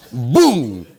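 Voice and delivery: low, drawn-out "boom"; comic crash noise; imitated crash boom. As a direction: mimic a plane crashing with one boom. Crash sound after fuel runs out.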